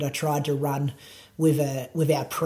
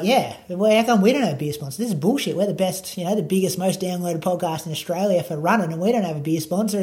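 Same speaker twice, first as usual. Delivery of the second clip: animated, raised-pitch retold protest; mock indignation; 3 semitones higher, 3 dB louder than usual. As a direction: retell your outrage, a bit louder and quicker. Retelling own mock-indignant complaint.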